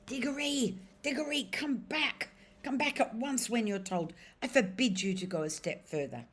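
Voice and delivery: high, strained call held back from full voice; a frightened old uncle calling out but not daring to yell; half-hearted shout. Acted. Timid uncle calling his nephew back, high and half-hearted. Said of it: "shouting, but by no means at the top of his voice".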